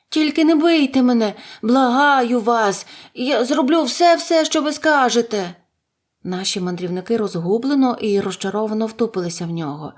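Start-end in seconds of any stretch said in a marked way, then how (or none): 0.1-5.5 frightened begging. A narrator's reading. Cornered little wizard to his visitors, begging fearfully. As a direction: beg for mercy, high and panicky.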